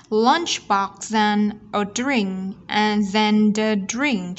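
slow, BOX AND run together; linked sounds. Shown as a demonstration. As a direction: link each word into the next, slowly. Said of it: "chúng ta nối âm".

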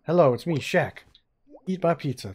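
a barely-there Shaq voice, lightly put on; terrible Shaq impression. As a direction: toss off a lazy, half-hearted Shaq. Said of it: "That's a terrible Shaq".

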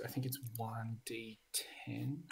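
whispered aside to himself. Real, not acted. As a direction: murmur the number while checking, unvoiced. Checking the rules to himself.

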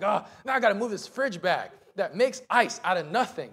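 loud retold grumbling; hammed-up grumpy rant; angry griping. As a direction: complain in mock exasperation. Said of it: "just, just angry".

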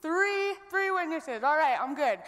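bright upbeat retelling of past excitement; excited relief. Retold or imitated. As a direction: pitch jumps high on sweet and three, buoyant and pleased. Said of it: "And I was like".

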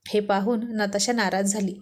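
ordinary delivery, nothing marked

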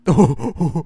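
loud jolted wait; startled loud wait; sudden shout. Real, not acted. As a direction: yell it out in alarm. Sudden alarm during raid.

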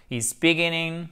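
beginning stressed on the middle syllable gin. Shown as a demonstration. Teacher points out the stressed syllable, stressed gin. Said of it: "Accent tonique ici".

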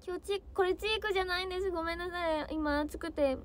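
usual speaking voice

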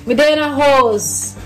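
playful Jamaican patois; put-on patois. Visitor at her uncle's house, playful Jamaican patois. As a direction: slip into Jamaican patois for the family. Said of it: "I'm just talking like that for them".

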